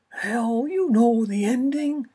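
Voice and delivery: high, loud pushy agent on the phone. Acted. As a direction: push hard like an impatient agent. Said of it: "only a few decibels softer".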